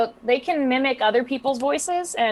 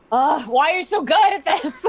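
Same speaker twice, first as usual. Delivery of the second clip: high-pitched, laughing mock whine; playfully jealous groan, pitched up; mock exasperation; 8 semitones higher, 4 dB louder than usual. Acting out envy of friend's voices.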